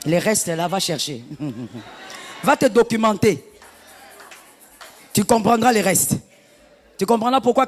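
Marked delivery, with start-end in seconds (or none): 2.4-7.7 forceful exhortation. Real, not acted. Preacher exhorting loudly.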